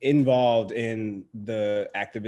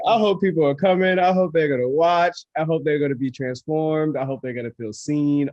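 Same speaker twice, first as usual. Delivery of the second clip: rising excitement, higher and louder; excited hope; 7 semitones higher, 7 dB louder than usual. Real, not acted. Answering the host about the premiere, excited and much louder. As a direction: pour out hopes, each one bigger. Hopeful build after host's praise.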